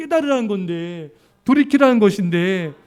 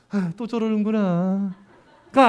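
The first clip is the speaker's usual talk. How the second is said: weary complaint; much slower than usual. Retold or imitated. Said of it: "가 아니라".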